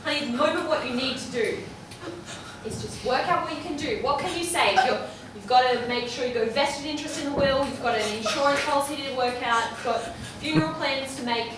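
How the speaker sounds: loud, pushy lecturing. Acted. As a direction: lay it out bluntly. Pushy stranger lectures grieving woman.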